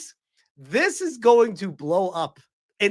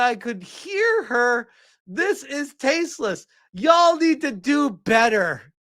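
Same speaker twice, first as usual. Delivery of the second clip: mock indignant reading; 2 semitones higher, slower than usual. Reads outraged comment mockingly.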